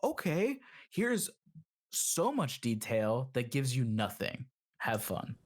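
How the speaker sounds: teasing, mock-helpful company voice; mock obliging. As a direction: play Sony trolling its fans with fake generosity. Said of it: "Is Sony just pulling a prank".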